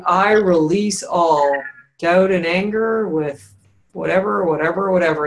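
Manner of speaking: weight on "I release all", trailing into a casual "whatever"; ease back after release. Shown as a demonstration. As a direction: stretch "I release all", then toss off "whatever, whatever" as if already gone. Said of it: "ease back on the emphasis".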